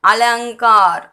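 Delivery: "அலங்கார்" as a-lang-kaar with clear ng; careful model of "அலங்கார்"; ng for dot. Shown as a demonstration. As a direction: sound ng before the k in "அலங்கார்". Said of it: "இங்கு தான் pronounce பண்ணணும்".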